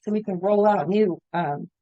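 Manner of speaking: hoarse, voice giving out; raspy whisper. Real, not acted. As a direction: voice cracking and fading. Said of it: "I'm losing my voice all of a sudden".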